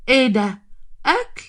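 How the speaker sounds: lightly acted surprise, pitch leaping up on the last word; pleasantly surprised. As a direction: spot the food and perk right up. Visitor delighted to find food.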